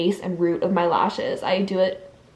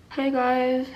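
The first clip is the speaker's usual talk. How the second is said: lips stretched wide, never closing; talking with lips held open; 4 semitones higher, 3 dB quieter than usual. Shown as a demonstration. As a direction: say it without letting the lips close. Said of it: "What if my lips never close and I just talk like this?".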